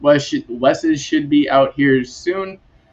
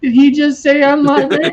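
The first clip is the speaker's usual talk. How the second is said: surprised; 12 semitones higher than usual. Retold or imitated. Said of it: "And I was like".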